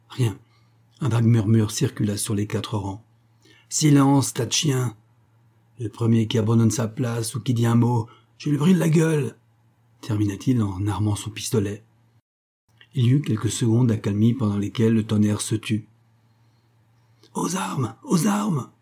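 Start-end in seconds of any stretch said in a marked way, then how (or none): 3.7-9.4 threatening guard. Acted. 17.3-18.7 higher cry from far off; distant cry. Acted. Sentries shouting far away, distant cry. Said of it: "cria-t-on dans le lointain".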